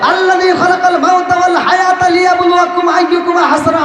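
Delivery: high-pitched shouted questions; fervent preacher's cry; rousing crowd call. Real, not acted. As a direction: call out for the crowd to answer as one.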